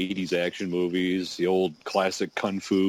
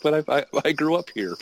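higher voice stammering protest; childish protest; 8 semitones higher than usual. Retold or imitated. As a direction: whine it like a small kid. Voicing the child's reply.

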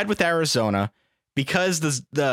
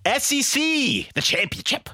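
congested, sick voice; stuffy nose; 10 semitones higher than usual. Real, not acted. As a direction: speak through a blocked nose. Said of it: "I'm sick".

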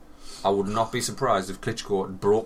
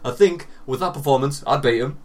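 mock David Haye; 4 semitones higher, 6 dB louder than usual. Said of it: "though, David".

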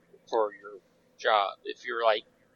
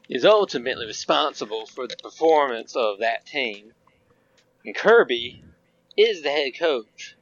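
put-on Southern accent. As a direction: read it like a Georgia football fan, Southern accent. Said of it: "read this with your most southern accent that you can muster".

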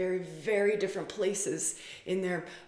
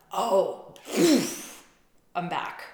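breezy bounce back; 7 dB louder, much slower than usual. Retold or imitated. Voicing partner snapping back.

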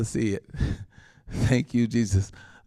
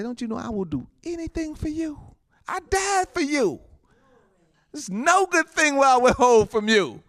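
voice of God; 8 semitones higher than usual. Acted. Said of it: "God say".

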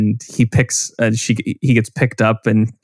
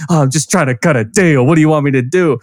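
Beetlejuice impression; 4 semitones higher than usual. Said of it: "and he's like".

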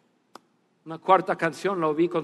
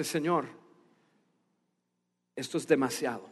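soft humble protest; 6 semitones lower, 9 dB quieter than usual. Retold or imitated. Humble man refusing the tip.

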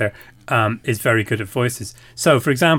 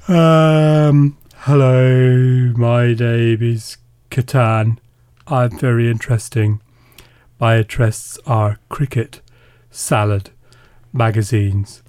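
loud, slow, far talking board game; 4 dB louder, slower than usual. Pretend. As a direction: announce yourself as a board game, slowly. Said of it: "I'm gonna give this one a go".

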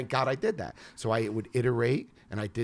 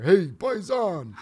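slow, loud, higher welcome; louder, slow triumphant hello; drawn-out greeting; 9 semitones higher, 9 dB louder, much slower than usual. Retold or imitated. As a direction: stretch it out like a proud host. Host greets him at elevator.

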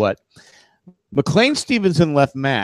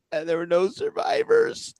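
laughing; 5 dB quieter than usual. Real, not acted. Laughing at tragic trivia fact.

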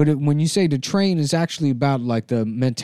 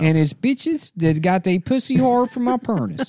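put-on Taiwanese accent; 5 semitones higher than usual. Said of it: "It's a traditional Taiwanese accent".

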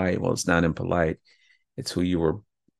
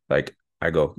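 ordinary delivery

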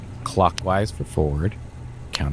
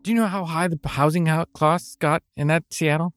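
high heated rant; indignant rant; 9 semitones higher than usual. Acted. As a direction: rant about it with outrage. Ranting about housing costs.

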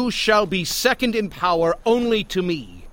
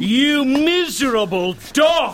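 furious insult; 6 semitones higher, 3 dB louder than usual. Acted. King furious at Haman.

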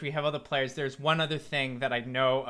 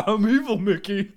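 evil Mickey voice; 4 semitones higher, 6 dB louder than usual. Pretend.

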